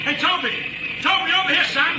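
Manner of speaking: high-pitched hail across a crowd; calling out. Acted. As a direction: call him over from a distance. Hailing Toby at the airport.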